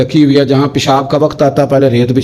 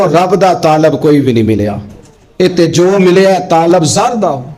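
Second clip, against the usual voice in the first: recited Punjabi verse. Retold or imitated. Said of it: "کس درد سے کہا تھا حضرت سلطان باؤ نے".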